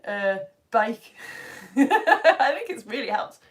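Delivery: put-on playful go at a Birmingham accent; hammed-up Birmingham accent with a laugh. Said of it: "making me do a Birmingham accent".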